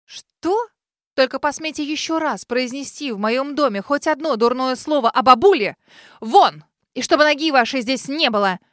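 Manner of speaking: a wounded beast throwing out the intruder; furious roar. Acted. Girl throws the lady out of her house, furious. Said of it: "Раненым зверем рявкнула".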